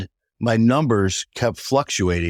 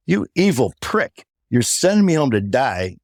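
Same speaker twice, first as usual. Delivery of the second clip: retold outrage; 3 semitones higher than usual. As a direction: re-enact disbelief turning to anger. Retold outrage at laughing doctor.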